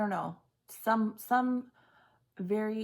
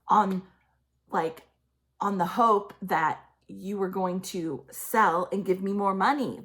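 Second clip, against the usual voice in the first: mock-furious mother snapping back, louder; imitating angry mother; 5 dB louder than usual. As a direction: voice the mother's greedy rage at the scared man. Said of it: "she's like".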